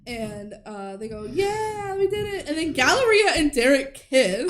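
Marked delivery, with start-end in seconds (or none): 1.2-2.5 a small-scale imitation of celebrating; mock cheering. Acting characters cheering after song.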